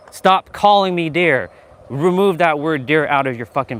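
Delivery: real, forceful reprimand; stern demand. Real, not acted. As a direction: lay down the rule, word by word. Telling off a viewer live.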